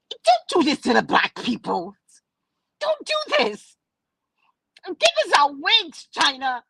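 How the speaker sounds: impassioned plea. Acted. Mock pleading with China.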